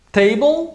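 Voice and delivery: table read out as written, rising; spelled word. Shown as a demonstration. Teacher reads table from the book. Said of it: "o jeito que se escreve em inglês".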